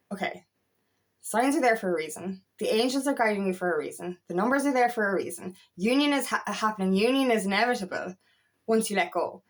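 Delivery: retold calm reassurance; calming self-talk. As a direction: talk yourself down after a panic, evenly. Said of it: "when I started to calm down".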